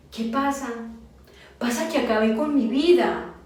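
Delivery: a touch of anguish, no sobbing; retold weeping confession. Husband confessing to his wife, mildly anguished. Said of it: "lloraba desconsoladamente y me decía".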